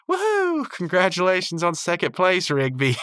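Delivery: high-pitched celebratory whoop; Eileen's mock cheer. Eileen showering Rigby with pretend confetti, high mock cheering.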